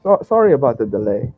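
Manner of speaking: stammering, nervous shopkeeper; shaky voice. Acted. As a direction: stutter it out, jittery and apologetic. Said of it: "with a shaky voice".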